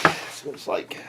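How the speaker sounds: voiceless whisper. Shown as a demonstration. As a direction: drop to a whisper on the repeat. Repeats line, then whispers it.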